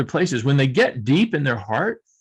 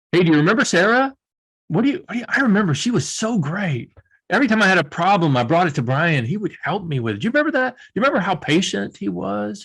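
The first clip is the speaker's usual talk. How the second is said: higher, lighter voice of an admiring colleague; fond coworker voice; 6 semitones higher than usual. Pretend. Coworker reminiscing in a break room, fond higher voice. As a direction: gush a little as a grateful coworker recalling a mentor. Imagined colleague remembering someone fondly.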